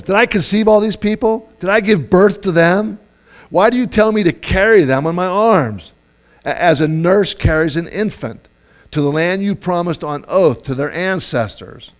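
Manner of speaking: loud, high exasperated complaint, easing off by the end; acted venting of frustration; frustrated Moses. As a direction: fire indignant questions up at God. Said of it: "getting out all his frustration".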